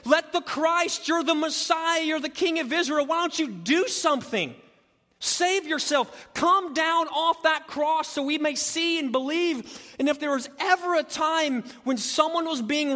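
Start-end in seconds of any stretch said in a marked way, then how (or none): 0.1-9.9 taunting dare. Retold or imitated. Crowd daring Jesus off the cross, high taunting. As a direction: goad him to come down. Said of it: "inviting him in this moment to come and say".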